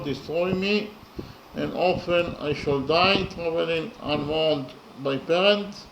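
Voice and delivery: poem recitation. Acted. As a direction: recite the stanza with solemn weight, line by line. Reads translated stanza aloud.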